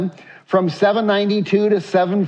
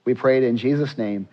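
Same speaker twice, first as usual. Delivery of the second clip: low, measured prayer voice; closing prayer; 6 semitones lower than usual. Real, not acted. Pastor closing the congregation's prayer before reading scripture, low prayer voice. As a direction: pray it earnestly at a lower pitch.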